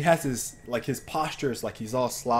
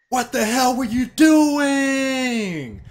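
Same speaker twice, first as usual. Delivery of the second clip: much higher and much louder, slow furious yell; angry shout; 12 semitones higher, 10 dB louder, much slower than usual. Retold or imitated. Angry neighbor yelling at the driver who crashed, furious shout. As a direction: bellow it at the driver across the lot. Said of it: "Like, really loud".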